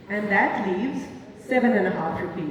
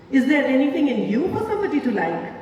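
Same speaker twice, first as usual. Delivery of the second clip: rising contempt, faster at first; a woman mocking her lover's looks; scornful tirade; 3 semitones higher than usual. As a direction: heap insults on him higher and higher. She berates him.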